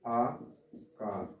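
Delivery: आकार stretched very slow and soft; drawn out. Shown as a demonstration. Teacher stretching the vowel name for students. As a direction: draw out आकार slowly. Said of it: "इसकी जो मात्रा है वो क्या है".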